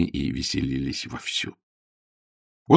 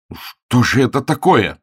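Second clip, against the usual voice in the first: deeply offended; 4 semitones higher, 4 dB louder than usual. Acted. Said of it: "сказал он в глубокой обиде".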